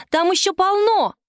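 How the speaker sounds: put-on high, loud boast of a little girl; proud. A narrator's reading. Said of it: "гордо ответила Кристина".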